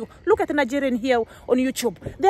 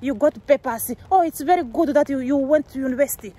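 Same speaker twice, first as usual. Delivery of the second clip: mock praise. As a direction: sneer through a sweet fake voice. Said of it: "You wanted a situation whereby I'll be just saying that".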